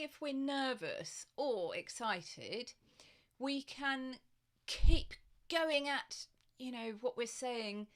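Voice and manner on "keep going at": rushed burst. Shown as a demonstration. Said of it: "fifty miles an hour".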